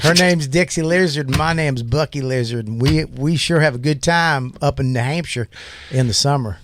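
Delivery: folksy fake country accent. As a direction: play Bucky Lizard with a country twang. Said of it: "we fake accents".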